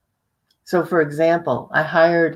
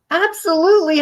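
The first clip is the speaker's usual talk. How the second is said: mock emphatic yes; 12 semitones higher, faster than usual. Shown as a demonstration. Speaker re-enacting client's hollow yes, mock emphatic. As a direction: sell "Absolutely" hard while the head says no. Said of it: "Her head is shaking no".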